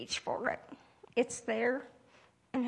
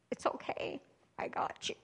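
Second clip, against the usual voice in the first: whispered. Retold or imitated. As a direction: breathe it out like comfort. God's reassurance quoted.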